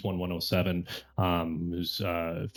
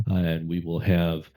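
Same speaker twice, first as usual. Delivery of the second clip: a burp breaks into the line; burping the words; 5 semitones lower than usual. Real, not acted. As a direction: talk through a small burp. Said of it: "excuse me, it's a horrible time to burp".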